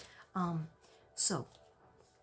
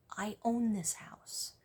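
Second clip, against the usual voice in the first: calm firm claim; 3 semitones higher, slower than usual. Shown as a demonstration. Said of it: "In a calm voice, in an even tone".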